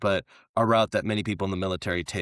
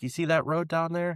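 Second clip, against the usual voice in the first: higher, knowing hint at the road; sly politician; 9 semitones higher than usual. Retold or imitated. American politician hinting to his guest, higher and sly. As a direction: point it out with a sly wink. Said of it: "He's like".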